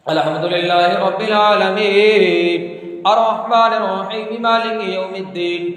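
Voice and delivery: melodic chanted recitation of the Fatiha; Quranic recitation. Acted. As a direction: intone it like an imam leading prayer. (इमाम की तरह सुर में क़िरात)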